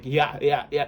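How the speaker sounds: a mild throaty laugh sound from the middle of the throat. Shown as a demonstration. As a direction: push a little laugh out of the mid throat. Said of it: "a lot of, uh, thing in your mid throat".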